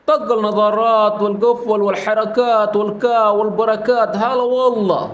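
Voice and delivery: slow, careful Arabic phrase; slowed-down Saudi phrase; slow demo. Shown as a demonstration. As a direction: spell it out slowly for learners. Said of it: "अभी मैंने slow बोला है".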